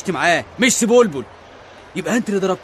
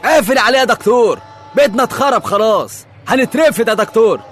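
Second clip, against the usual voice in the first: loud, desperate complaint; alarmed shouting; 6 dB louder than usual. Acted. Railwayman telling the doctor of the locked cabin, alarmed shouting. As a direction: shout for help as disaster looms.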